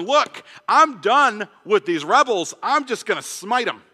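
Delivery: angry God. Acted. God giving up on rebels, mild angry declaration. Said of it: "God is angry".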